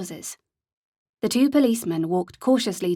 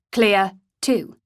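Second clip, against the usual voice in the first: louder called clear; yell; 4 dB louder than usual. A narrator's reading. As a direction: call back the all-clear.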